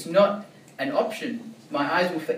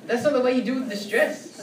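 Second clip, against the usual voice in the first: laughing; 10 semitones higher, 3 dB louder than usual. Real, not acted.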